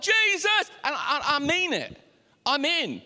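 high, loud burst of devotion; hammed-up fervour, high-pitched; overexcited worship cry. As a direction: cry out, swept up in the moment. Acts out emotional worship moment.

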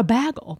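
"bagel" said as BAG-el; short a as in "bag" in "bagel"; Wisconsin pronunciation. Shown as a demonstration. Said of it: "able to make the ah noise".

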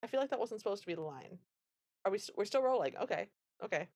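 high, rushed confusion; a bewildered actor checking the script; lightly voiced flustered actor; baffled actor. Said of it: "looking at the director like".

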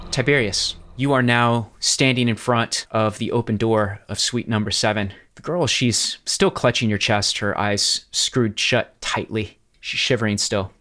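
measured, deliberate scene setting; game master's narration. Acted. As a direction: set the scene with deliberate pauses.

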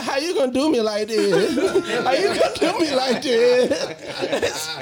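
high, laughing mock plea; imitating whiny cousin. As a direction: whine it through laughter. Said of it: "my cousin Tiffany's like".

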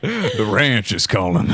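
slow cowboy voice, laughing. Acted. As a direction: drawl it like a cowboy.

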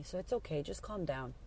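soft retold reassurance; gentle, understated comforting; calming. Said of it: "She calmed me down".

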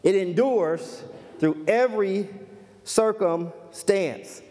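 "endures", "every" and "circumstance" set apart by pauses; deliberate, spaced-out stress on "every circumstance"; emphatic repetition. Real, not acted. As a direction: drag out "circumstance" slowly after a pause. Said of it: "I cannot emphasize that enough".

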